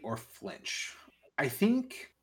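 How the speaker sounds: quick whispered aside; whispering. Real, not acted. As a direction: whisper it to yourself. GM whispers to himself.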